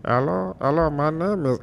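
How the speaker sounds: put-on high, loud, Nigerian-accented pastor greeting; hammed-up Nigerian preacher; old Nigerian pastor. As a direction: greet the flock with a big accented hello. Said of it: "this is how my old pastor used to talk".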